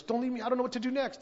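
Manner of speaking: high-pitched imitated plea; terrified pleading. New convert begs the preacher to stay, mock-terrified. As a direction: imitate someone scared of being left. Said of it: "He's terrified".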